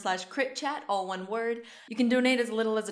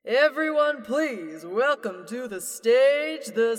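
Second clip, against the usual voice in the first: loud, higher showman call, drawn out slowly; stage announcer; 6 semitones higher, 6 dB louder, much slower than usual. Acted. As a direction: hype up the crowd like a carnival emcee.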